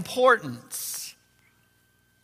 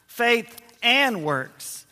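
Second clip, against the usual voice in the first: very slow; much slower than usual. Shown as a demonstration. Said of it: "Thirdly, faith and works".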